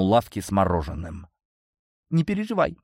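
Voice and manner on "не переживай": usual speaking voice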